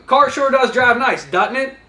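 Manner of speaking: slow and deliberate, rising on "doesn't it?"; slow demo of the yes question; slow leading question. Shown as a demonstration. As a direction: spell the loaded question out for the trainees. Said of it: "by asking the simple question of".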